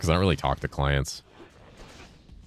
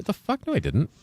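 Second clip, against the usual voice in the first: startled outburst; 13 semitones higher than usual. Real, not acted. Surprised at missing a Vex.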